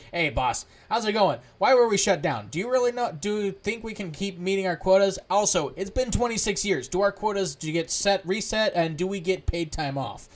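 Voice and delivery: pit droid pestering the boss, lightly voiced; chatty pit droid.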